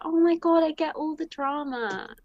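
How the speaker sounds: high, excited Oh my God; excited gush. Retold or imitated. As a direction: gush like you finally get the gossip. Acted quote of her excited self.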